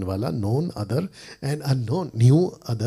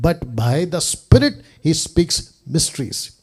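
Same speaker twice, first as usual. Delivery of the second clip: very slow, emphatic English Bible reading; scripture reading; 3 dB louder, much slower than usual. Acted. Preacher reading Aramaic Bible translation to listeners, slow and emphatic. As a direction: space out each phrase, voice slightly raised.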